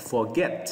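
forget, rising on the second syllable; stress on GET. Shown as a demonstration. Teacher repeats after the reminder, forget stressed on GET. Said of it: "Lên giọng ở âm get nha".

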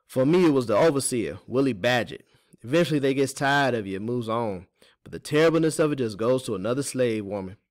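put-on folksy Teeny, confiding. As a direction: confide a hard truth as the older woman.

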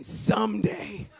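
stretched out, mocking; mock slow drawl. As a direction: drag out the word to mock. Quoting the guys ticking.

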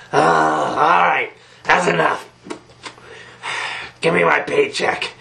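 cartoon clown dropping the act, weary; lightly voiced fed-up clown; jaded clown. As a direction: let the showman energy drain away. Clown drops showbiz act, wants pay.

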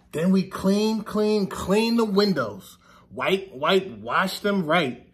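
slow, sing-song picture book reading; story reading. Acted. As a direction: read it to the kids with a gentle rhythm. Reads picture book to children.

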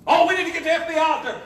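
laughing mock quote.

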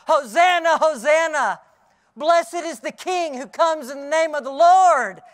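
loud, ringing cry of praise. Retold or imitated. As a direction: call it out joyfully to the crowd. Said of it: "he just cries out".

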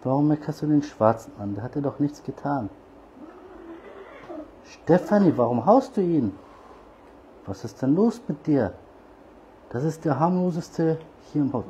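high, loud indignant scolding; scolding the cat. Real, not acted. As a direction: tell off the cat for bullying the little one. Scolding cat for hitting kitten. (hohes, lautes Schimpfen mit der Katze)

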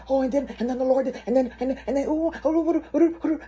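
high, breakneck excited babbling; giddy high gushing, tumbling over the words; childlike excitement. Retold or imitated. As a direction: rattle on like an overexcited child. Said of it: "I'm so excited like a child".

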